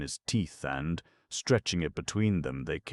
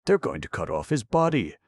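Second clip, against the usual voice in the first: confiding; 10 semitones higher, 8 dB louder than usual. Acted. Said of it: "confided one of the long-nosed tribesmen".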